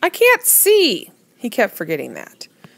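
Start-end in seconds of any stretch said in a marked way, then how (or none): 0.0-1.1 angry, very high voice. Narrator reads his own reply to a companion pointing at an island, angry. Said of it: "Angrily, I said to him".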